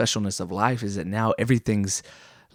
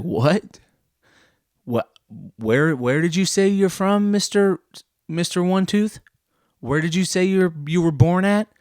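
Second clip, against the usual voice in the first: higher, louder, disbelieving questions; incredulous mock questioning; 6 semitones higher, 3 dB louder than usual. Mock asking a Mississippian where he's from, incredulous. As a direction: pretend you can't believe what you just heard.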